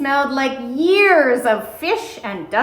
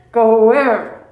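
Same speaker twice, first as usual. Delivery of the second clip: startled; 6 dB louder than usual. Acted. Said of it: "eyes snapped open".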